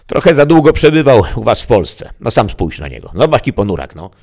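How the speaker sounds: high, loud mocking devil; a demon poking fun at the grump; gossiping devil. (diabeł drwi z ponuraka, wysokim głosem)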